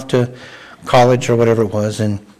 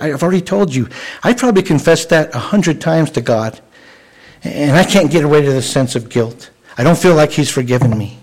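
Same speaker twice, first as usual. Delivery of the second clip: mildly exasperated, higher-pitched retold plea; exasperated protest; 4 semitones higher than usual. Student tells her teacher she still feels guilty, exasperated. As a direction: voice a frustrated student's insistence, lifting the pitch.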